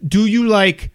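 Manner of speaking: imitated New York pizza man; New York accent. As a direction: beckon them over in a put-on New York accent. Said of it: "This is how he talks".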